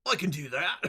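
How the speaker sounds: put-on broad Aussie vowels; Australian accent. Shown as a demonstration. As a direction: say it like an Australian crocodile hunter. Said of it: "Crocodile hunter".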